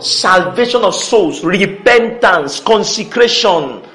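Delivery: very slow, each word set apart; deliberate, drawn-out sermon list. Acted. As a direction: spell out the list slowly. Preacher lists slowly.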